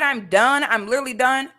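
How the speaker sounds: mocking quote. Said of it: "when you said".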